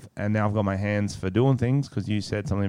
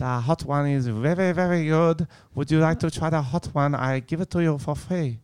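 put-on higher, pushy Asian-accented server; mock Asian accent; 3 semitones higher, 4 dB quieter than usual. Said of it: "I don't know what accent that was".

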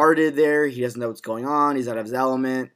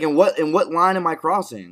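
Alfie quote; 5 semitones higher, 6 dB louder than usual. Acted. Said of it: "he's like".

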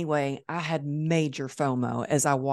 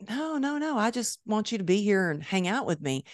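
high, insistent no no no; eager refusal; 5 semitones higher than usual. Retold or imitated. Imitating Jesse refusing her offers, high and insistent. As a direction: brush her offers aside, keen.

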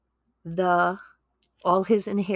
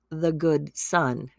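air quotes; slower than usual. Real, not acted. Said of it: "air quotes".

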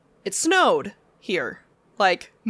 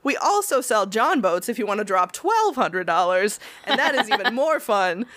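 quick, eager upsell, higher at first; salesman pitch; 3 semitones higher than usual. Retold or imitated. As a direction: rush the pitch like a keen clerk. Upselling boats to caller.

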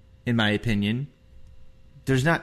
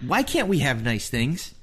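whiny exasperation; 10 semitones higher than usual. Real, not acted. Pleading about team's luck.

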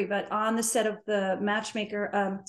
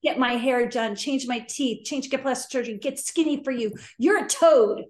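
vicious rant. Retold or imitated. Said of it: "I was really vicious 'cause I was like".

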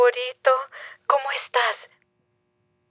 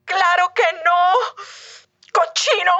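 indignant scolding; 7 semitones higher than usual. Acted. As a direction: scold him as a pig. Offended scolding.

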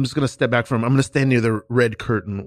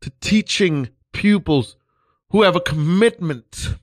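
hammed-up earnest teacher; 3 semitones higher than usual. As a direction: overplay the devoted teacher. Teacher asks Stan for support.

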